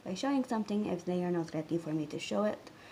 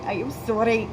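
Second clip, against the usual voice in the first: louder, playful "sorry" before a laugh; exaggerated apology; 6 dB louder than usual. Shown as a demonstration. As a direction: punch out "I am sorry" in mock earnest. Repeats apology, playing with her accent.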